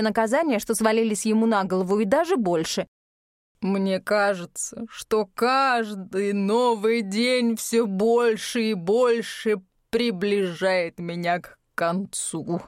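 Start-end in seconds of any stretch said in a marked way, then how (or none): 3.6-12.6 drawn-out tearful sigh; slow, sorrowful and weary; slow mournful lament. Acted. Жодар in tears.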